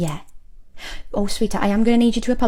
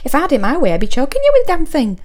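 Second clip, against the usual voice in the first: mock threat; 4 semitones higher, 6 dB louder than usual. Threatening rude customer Keith.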